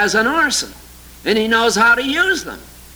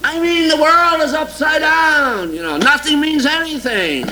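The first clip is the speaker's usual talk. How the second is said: an indignant preacher's slowed cry; exasperated outcry; 7 semitones higher than usual. Real, not acted. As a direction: throw up your hands at the absurdity. Exasperated outburst in sermon.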